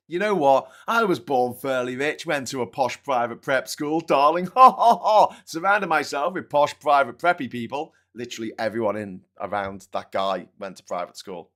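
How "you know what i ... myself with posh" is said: lightly posh, a bit louder and higher; mock posh leader. Comedian voicing the privileged leader, mildly posh. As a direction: sneer out a snobby boast.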